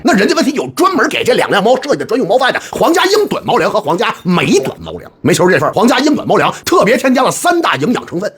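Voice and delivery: upbeat sponsored product pitch; ad read. Acted. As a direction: read it like a commercial. Sponsored cat food ad read.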